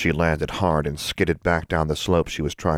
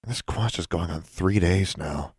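sighing. Acted. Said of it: "Alexandra sighed".

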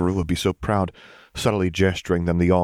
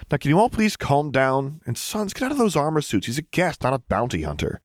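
raised exasperated order; 8 semitones higher than usual. A narrator's reading. Luke orders clones to stand down.

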